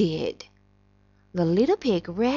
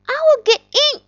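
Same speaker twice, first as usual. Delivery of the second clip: wolf voice; 10 dB louder, faster than usual. Acted. Wolf vows to enter.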